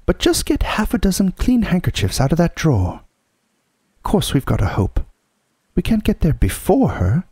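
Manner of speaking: high-pitched housewife taking charge; Missus Beaver, practical. Acted. Mrs Beaver answering Susan's fears, briskly hopeful.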